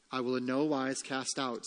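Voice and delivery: soft, settled answer; Christ's reassurance. Acted. Preacher voicing Christ's answer to the hard-hearted, quiet reassurance. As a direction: answer quietly, dropping below the protest. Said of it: "says Christ".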